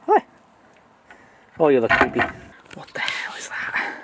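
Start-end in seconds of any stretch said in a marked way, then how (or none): 2.7-3.9 What the hell whispered slowly; shocked whisper. Real, not acted. Seeing a creepy doll.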